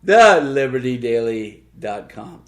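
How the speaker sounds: repeated announcer plug, rising; game show host voice. Acted. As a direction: sell the web address like a host. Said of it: "That's me and my game show host voice".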